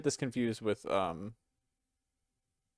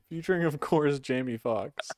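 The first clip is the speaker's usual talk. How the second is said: football game announcer. Acted. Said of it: "You sound like a fucking, ... football game announcer's".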